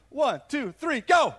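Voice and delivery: loud shouted cue; shouted count. Real, not acted. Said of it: "have you say amen at the count".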